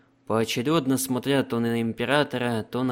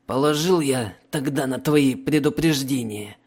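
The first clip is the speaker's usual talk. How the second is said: snapping; 3 semitones higher, 4 dB louder than usual. Acted. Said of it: "огрызнулся пленник".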